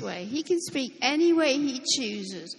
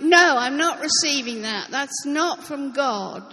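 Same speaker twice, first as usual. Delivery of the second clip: firm refusal; 7 dB louder than usual. Retold or imitated. Preacher acting out rejecting a false thought: firm, loud no. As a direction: push the thought away firmly. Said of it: "and I'm like".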